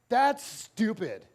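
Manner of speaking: slow, loud blurt; shouted out. Retold or imitated. Little girl shouting at her coach. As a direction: blurt it out rudely. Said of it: "this little girl shouts out".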